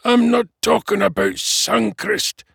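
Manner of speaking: high, loud dwarf snarl. A narrator's reading. Dwarf to his obtuse friend, exasperated snarl. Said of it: "Flint snarled".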